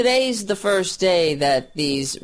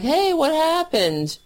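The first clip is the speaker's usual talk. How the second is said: mock clueless voter; 4 semitones higher than usual. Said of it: "will be like".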